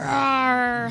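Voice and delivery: loud mock roar like the Hulk. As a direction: growl it out like the Hulk. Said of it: "Hulk style on the mic".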